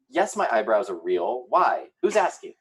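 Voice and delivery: a hint of Sarah, rising defensively; sassy defensive Sarah; Sarah impression. Host imitating Sarah defending her eyebrows, lightly voiced. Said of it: "That was my best Sarah impression".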